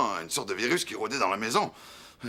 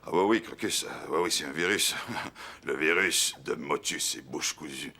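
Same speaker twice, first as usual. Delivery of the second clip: holding back laughter; 8 semitones lower, 3 dB quieter than usual. Retold or imitated. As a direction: try not to laugh while answering. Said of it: "avait de la misère à retenir son rire". (en retenant son rire)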